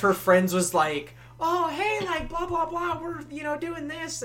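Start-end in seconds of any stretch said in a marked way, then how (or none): 1.4-4.2 high mock valley-girl chatter, lightly hammed; imitating her friend. Her friend cutting in on them, high hammed-up chatter. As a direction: pitch way up and babble like a bubbly friend.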